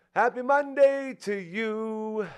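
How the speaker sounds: goofy, hammy announcer voice, very high, loud, slow.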